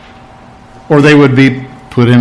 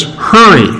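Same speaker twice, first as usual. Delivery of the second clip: a higher urgent Hurry; 5 semitones higher than usual. Acted. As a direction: HURRY lifted high. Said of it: "There's two commands here".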